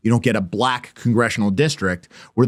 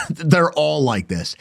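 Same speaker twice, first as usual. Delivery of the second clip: laughing; 4 semitones higher, slower than usual. Real, not acted. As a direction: laugh through it, slow and mocking. Laughing mocking repeat.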